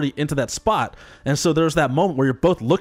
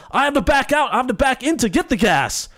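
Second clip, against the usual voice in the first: high, whiny voice for the other driver; mock pushy driver; 7 semitones higher than usual. Mimicking the driver insisting he backs in, high and whiny. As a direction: imitate him insisting, pitched up. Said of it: "He's like".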